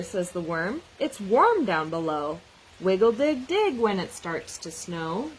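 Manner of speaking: lively picture-book read-aloud with animal voices; reading to children. Acted. Teacher reading a snow book to children, lively read-aloud. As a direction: read it out like story time for a class.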